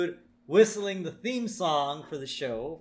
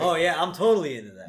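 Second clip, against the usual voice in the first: mock interest; 3 semitones higher, 5 dB louder, faster than usual. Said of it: "the women seem to be into it".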